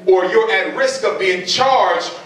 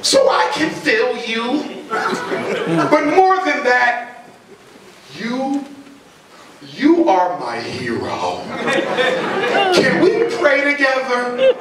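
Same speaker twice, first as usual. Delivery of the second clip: gushing teacher; slower than usual. Acted. Teacher gushing fake sympathy.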